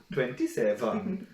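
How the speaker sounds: lightly put-on Turkish accent; mock Turkish accent. The speaker answering the caller, mock Turkish accent. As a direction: give the number a Turkish lilt. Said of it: "Turkish Bren, yeah".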